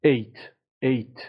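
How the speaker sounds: "Eight" as the stressed end of create; stressed second syllable. Shown as a demonstration. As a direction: punch out "Eight" alone as a syllable. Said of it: "استرس رو بخش دومه".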